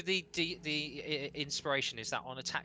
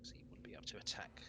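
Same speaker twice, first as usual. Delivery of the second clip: whispering; 10 dB quieter, much faster than usual. Real, not acted.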